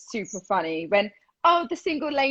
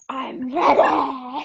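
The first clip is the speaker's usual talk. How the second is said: slow hammed-up laughing boast; mock dancer voice; much slower than usual. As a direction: ham it up while laughing. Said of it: "I'd be like that".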